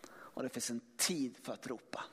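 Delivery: viska fram raden helt tonlöst; viskning. Shown as a demonstration. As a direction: en lågmäld viskning, nästan bara luft. Predikant viskar ordet ropa. (viskar helt tonlöst)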